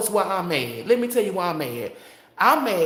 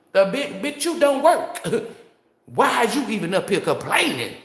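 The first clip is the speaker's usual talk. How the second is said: reenacted cuss-out; 4 semitones higher than usual. Cussing out the coworker who complains but doesn't work, high reenacted yell. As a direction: throw "you don't work" right at them.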